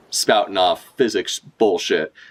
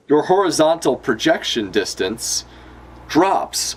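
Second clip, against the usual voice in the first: character voice; 4 semitones higher than usual. Acted. Manga dialogue read in character voice.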